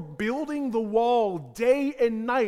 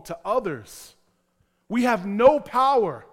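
voicing a wife. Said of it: "one of the wives maybe saying".

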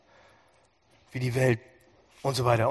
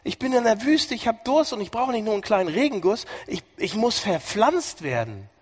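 hoch und langsam, gerufen; Jeremias Schrei; 7 semitones higher, 4 dB louder than usual. Acted. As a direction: ruf den Durst laut heraus. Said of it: "Jeremia schreit". (Jeremia schreit hoch und laut)

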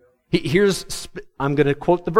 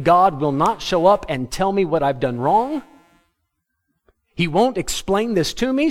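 higher, exasperated Jeremiah giving up; frustrated quitting; 4 semitones higher than usual. Retold or imitated. Jeremiah complaining to God that he quits, higher exasperated voice. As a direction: throw up your hands and quit. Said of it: "he said".

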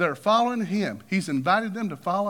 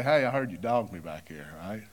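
mock confrontation; 10 semitones lower, 5 dB quieter than usual. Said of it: "He didn't say".

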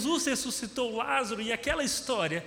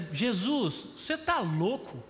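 rising higher, disbelieving, asking if he's crazy; incredulous protest; 5 semitones higher than usual. Retold or imitated. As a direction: push back in alarmed disbelief. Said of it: "O que os discípulos estão dizendo é".

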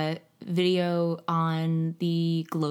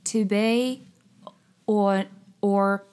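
faltering attempt at an old Southern British accent; attempting Shakespearean Southern accent; much slower than usual. Shown as a demonstration. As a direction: try Shakespeare in a Southern drawl. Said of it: "Southern British".

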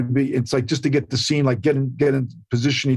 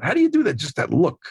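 animated imitation; faster than usual. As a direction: push the wonder further on the repeat. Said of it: "He's all animated".

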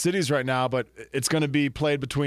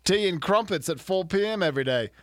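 mock British accent; 2 semitones higher than usual. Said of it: "I don't think that's Australian".

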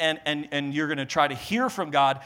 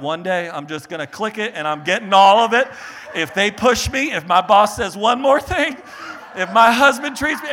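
mock fed-up shopper; 2 semitones higher, 4 dB louder than usual. Voicing frustrated shopper.

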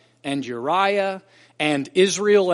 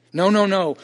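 louder firm no no no; emphatic denial; 3 semitones higher, 7 dB louder than usual. Acted. Preacher voicing David's prayer, emphatic denial. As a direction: shut the idea down hard. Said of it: "emphatic rebuttal in voiced prayer".

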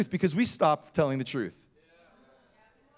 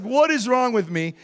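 higher, exasperated at himself; mock self-reproach, pitched up; embarrassed; 5 semitones higher, 3 dB louder than usual. Embarrassed evangelist to himself, flustered. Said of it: "So he's now embarrassed".

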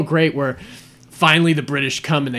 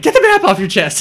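lightly voiced old sidekick, higher and louder; mock an excited old-timer repeating the line; hammed-up higher old-timer voice; Walter Brennan; 8 semitones higher, 7 dB louder than usual. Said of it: "And Walter Brennan's like".

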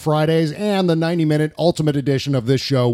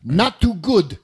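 lightly voiced politician, pitched up, hard final consonant; Donald Trump; 4 semitones higher, slower than usual. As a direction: deliver a raised verdict with an affected "good". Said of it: "you can picture Trump saying this".

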